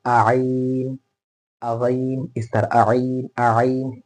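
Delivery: stray आ leading into a long आइन; delay the throat sound in आइन with a vowel; wrong added vowel. Shown as a demonstration. Teacher demonstrating what to avoid, आ stuck before आइन. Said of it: "ये नहीं करना".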